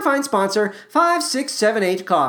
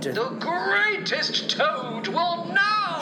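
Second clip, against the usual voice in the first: high, slow grand proclamation; faraway stage herald; strange announcing voice; 9 semitones higher, 6 dB quieter, much slower than usual. A narrator's reading. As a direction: announce it loftily, stretching each word. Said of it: "Then the voice said".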